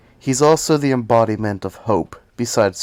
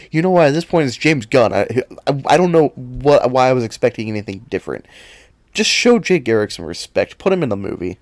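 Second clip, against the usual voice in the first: louder, rapid exasperation; irritated rant; 2 semitones higher, 6 dB louder than usual. Real, not acted. Fan scolding James Gunn, heated rant. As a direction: vent at the director. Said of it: "that small outburst".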